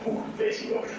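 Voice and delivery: high breathy sing-song tease; teasing squeal. Real, not acted. Filming wife, teasing sing-song.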